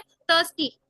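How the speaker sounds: "थर्स्टी" as thus-tee, no i vowel; pronunciation demo. Shown as a demonstration. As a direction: say "थर्स्टी" with uh in the first syllable. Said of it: "आई का sound नहीं है".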